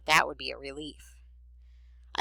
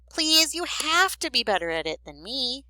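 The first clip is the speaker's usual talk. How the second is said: put-on higher-pitched pleading girl; desperate pleading; 9 semitones higher, 4 dB louder than usual. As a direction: beg big brother for help, voice lifting. Desperate sister pleads for help.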